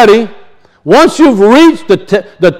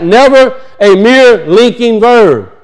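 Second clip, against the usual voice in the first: slow emphasis; 2 semitones higher, slower than usual. Shown as a demonstration. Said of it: "Always emphatic".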